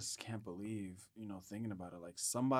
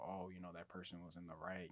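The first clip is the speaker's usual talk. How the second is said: whispered, lower mock quote; 3 semitones lower, 10 dB quieter than usual. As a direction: whisper it like a smug excuse. Mocking those who defend the officer.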